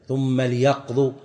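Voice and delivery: "ثم ليقضوا" with the lām silent: thumma l-yaqḍū; with sukun. Shown as a demonstration. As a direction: read "ثم ليقضوا" keeping the lām unvowelled. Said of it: "بالسكون".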